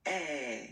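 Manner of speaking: "Eh" said wide open, like è in grave; open French è. Shown as a demonstration. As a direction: drop the jaw for an open "Eh". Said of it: "it's the open one".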